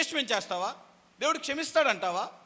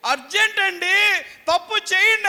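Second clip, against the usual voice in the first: pleading wife; 9 semitones higher, 10 dB louder than usual. Retold or imitated. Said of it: "అని భార్య నిన్ను బ్రతులాడుతుంది".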